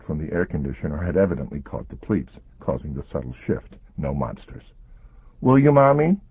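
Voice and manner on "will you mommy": put-on high, anxious child; little girl voice. A narrator's reading. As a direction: ask like a worried little girl. Child character voice.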